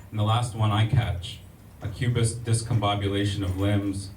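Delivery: measured spoken-word poetry reading; poem reading. Acted. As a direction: read it like a spoken word poet. Reads a second poem aloud.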